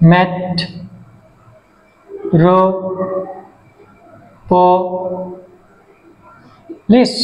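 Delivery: ম্যাট, রো, প, লিস as four isolated syllables; long pause after each of ম্যাট, রো, প, লিস. Shown as a demonstration. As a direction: dictate ম্যাট, রো, প, লিস piece by piece. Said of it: "চারটা করে syllable আছে".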